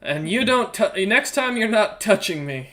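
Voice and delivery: intimidating threat. Acted. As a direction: threaten her up close. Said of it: "go up into Sigrun's face and go".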